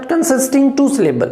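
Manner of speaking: slow dictation. Shown as a demonstration. Teacher repeating the definition to students, slow. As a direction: repeat it slowly so it sticks. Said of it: "teacher repeats definition".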